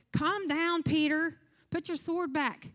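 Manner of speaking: calming Jesus. Retold or imitated. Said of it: "And Jesus is like".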